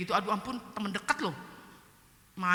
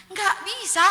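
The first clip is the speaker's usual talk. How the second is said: high, louder acted objection; helpless protest; 11 semitones higher, 6 dB louder, slower than usual. Speaker admitting to friend they can't forgive, helpless protest. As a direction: re-enact insisting it cannot be done.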